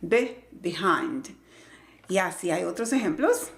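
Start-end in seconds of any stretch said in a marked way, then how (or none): 0.0-1.3 BE alone, then BEHIND with short unstressed first vowel; sonido E. Shown as a demonstration. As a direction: isolate BE, then stress the end of BEHIND. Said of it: "se pronuncia con ese sonido de E". (BEHIND con "be" breve, sin acento)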